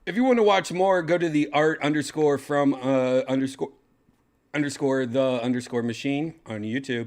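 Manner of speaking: high, loud hype plug; loud excited announcement. Acted. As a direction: shout it like an announcer. Shouting a channel plug.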